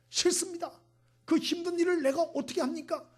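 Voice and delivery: high, loud protest to God; acted indignant objection; defiant refusal. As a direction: push back hard, voice jumping up. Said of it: "하나님 앞에 대놓고 다섯 번이나 고역을 했습니다".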